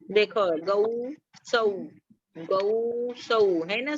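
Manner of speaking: गौ and सौ said slowly, each vowel drawn out; teacher drawing out गौ सौ; careful गौ and सौ. Shown as a demonstration. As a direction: stretch the औ in गौ and सौ. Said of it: "का उच्चारण अलग है".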